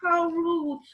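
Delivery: hurt little private thought; mildly sad inner voice. Acted. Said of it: "thought to herself sadly".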